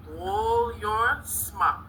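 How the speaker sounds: slow, stretched class chant; drawn-out cheer. Pretend. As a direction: draw the words out as a cheer.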